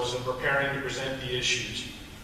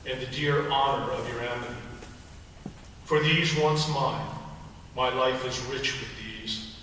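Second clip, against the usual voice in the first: poem recital. Acted. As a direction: read it like a solemn elegy. Reads Santayana poem at memorial.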